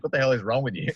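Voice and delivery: mock disbelieving partner; incredulous girlfriend. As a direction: throw her baffled question back as she said it. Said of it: "and she's like".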